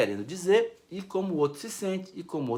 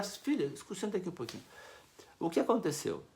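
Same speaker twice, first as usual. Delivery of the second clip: soft, calm invitation to talk; gentle parent; 9 dB quieter than usual. Shown as a demonstration. Parent calmly calling the daughter to talk, soft. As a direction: ease the daughter into sitting down. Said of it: "Não, chega".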